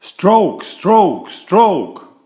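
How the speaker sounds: high, loud rhythmic calls, falling each time; calling the stroke. A narrator's reading. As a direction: drive the paddlers in rhythm. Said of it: "called Lizzie".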